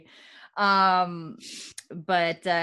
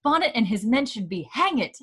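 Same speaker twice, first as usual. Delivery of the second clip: put-on outraged old aunt; 6 semitones higher than usual. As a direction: draw out her shock like an offended grande dame. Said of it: "She's like".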